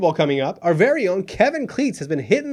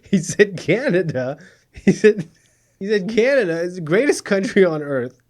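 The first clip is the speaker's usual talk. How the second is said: fighting laughter; 3 dB louder than usual. Real, not acted. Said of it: "I try to say this with a straight face".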